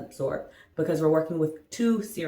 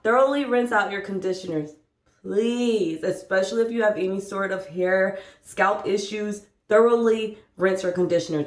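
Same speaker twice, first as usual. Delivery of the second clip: preschool teacher. Shown as a demonstration. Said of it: "I sound like a preschool teacher".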